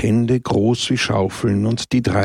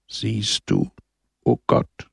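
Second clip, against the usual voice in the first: smiling murmur; slower than usual. A narrator's reading. Don Camillo murmuring to God with a smile. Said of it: "murmelte lächelnd Don Camillo".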